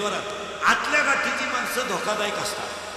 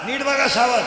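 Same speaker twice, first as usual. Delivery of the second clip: loud teacher call to the class; firm call; 6 dB louder than usual. Real, not acted. Teacher calling class to attention.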